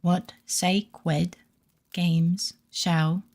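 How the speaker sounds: slow cutesy uwu reading, r into w. Acted. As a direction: read it in baby-talk uwu speak. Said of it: "putting the Uwu message in, and I'll try to read it".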